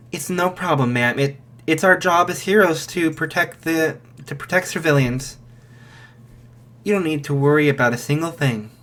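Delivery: a hint of a polite official reassuring; lightly voiced gatekeeper, calm; reassuring guard voice. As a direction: gate voice reassures the mother she is safe, lightly voiced. Cyclops voice reassures again.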